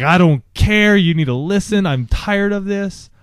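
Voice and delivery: retold angry shout. Father recalling yelling at his daughter, loud and stern. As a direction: snap back like a livid dad. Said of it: "I was like".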